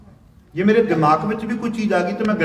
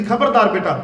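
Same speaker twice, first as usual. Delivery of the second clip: rising, louder scolding with a laugh; a mock stern mother, building higher; mother's stern warning; 6 semitones higher, 3 dB louder than usual. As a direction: hush him firmly, half laughing. Mother scolding son to hush.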